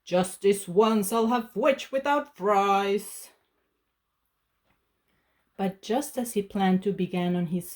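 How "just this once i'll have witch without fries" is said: slow, relishing dragon voice; slow greedy dragon to the witch; gloating dragon. Acted. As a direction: savour the threat slowly. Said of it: "with a glint in his eyes and said".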